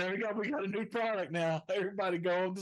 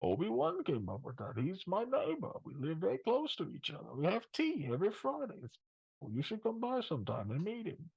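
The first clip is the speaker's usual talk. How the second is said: Bane voice; 5 dB quieter than usual. Pretend. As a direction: talk through a hand like a masked villain. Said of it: "Bane is".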